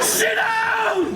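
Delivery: loud high command, half laughing; sharp loud order; urgent shout. Retold or imitated. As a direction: yell at him to sit. Telling friend to sit down.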